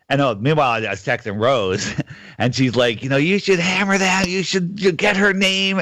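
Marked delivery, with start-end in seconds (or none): 3.0-5.8 high-pitched imitation of an egging-on friend; mock urging. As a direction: urge them on in a raised voice, imitating a friend. Acting out friend's urgent advice.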